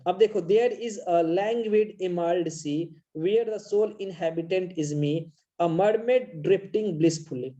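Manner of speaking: slow poem reading. Shown as a demonstration. Teacher reading Amanda's daydream to students, slow. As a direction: read each word slowly and clearly. Reads poem lines slowly.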